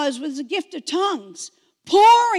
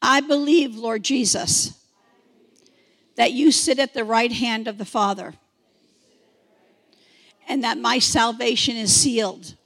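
led prayer; 7 semitones lower than usual. Real, not acted. Repeat after me.

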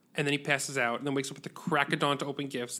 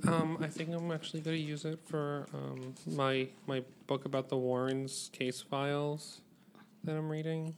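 weird voice; 7 dB quieter than usual. Pretend. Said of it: "Why do you sound so weird?".

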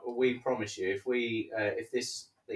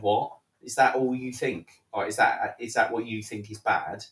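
mock American listener; 4 dB louder than usual. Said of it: "you're probably looking at it going".

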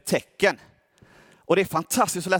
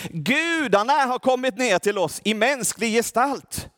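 higher, slow awed exclamation; crowd exclaiming; 5 semitones higher, slower than usual. Acted. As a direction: proclaim that the gods have come down. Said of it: "ropade de på lykaoniska".

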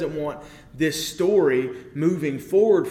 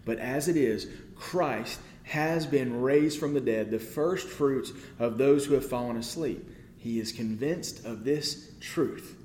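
"Christ has been raised from the dead" slowed with weight on "raised"; emphasis on reading; 3 dB quieter than usual. Shown as a demonstration. Reading verse twenty to the church, with stress on "raised". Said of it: "I'll put some emphasis on that as I read it".

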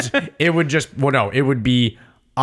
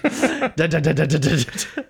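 imitated gunfire. Imitating rapid revolver fire.

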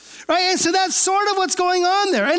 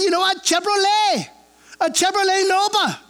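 put-on light Mexican accent; 3 semitones higher than usual. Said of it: "he had a pretty distinct accent".

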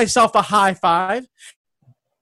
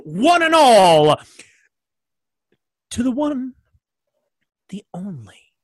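ringmaster. Pretend. Podcast intro, announcer call.

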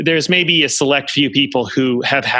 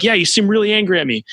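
meet his heat with your own raised voice; matching their energy; 6 semitones higher, faster than usual. Shown as a demonstration. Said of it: "you match them".

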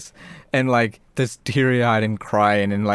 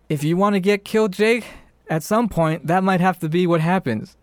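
high-pitched doll making his pitch; persuading killer doll; 7 semitones higher than usual. Retold or imitated. Chucky recruiting Jake to killing, persuasive. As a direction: lay out the choice as Chucky.

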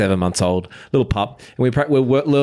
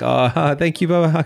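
higher, sweetly fake customer-service voice; put-on politeness; 6 semitones higher than usual. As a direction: act out a chirpy, half-laughing thanks and goodbye. Polite act in company shirt.

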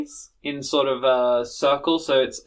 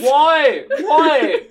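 barbarian; 10 semitones higher, 6 dB louder than usual. Acted. Boris bitten on the knees.

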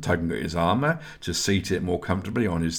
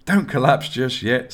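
louder, higher teasing through a grin; grinning; 6 semitones higher, 5 dB louder than usual. A narrator's reading. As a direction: tease with a grin in the voice. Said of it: "grinning at him".

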